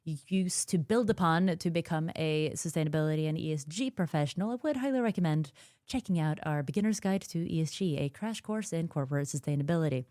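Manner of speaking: commercial voice. Shown as a demonstration. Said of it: "that's my commercial voice".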